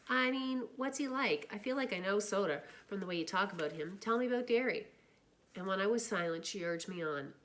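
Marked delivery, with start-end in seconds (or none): 0.1-4.9 lightly voiced curious girl; eager questioning. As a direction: press him, a bit higher. Cherry presses about Derry.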